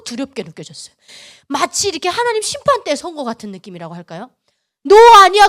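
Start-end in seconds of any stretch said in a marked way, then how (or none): 4.8-5.5 sudden loud, high rejection; stern verdict. Retold or imitated. God rejecting Yuna at the judgment seat, loud and stern. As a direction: hurl the verdict out forcefully. Repeats God's crushing verdict.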